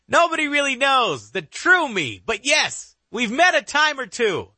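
high, eerie villain voice; dark whisper behind you. Acted. Killer taunts.

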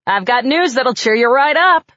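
cheerful news. A narrator's reading. Harry with good news.

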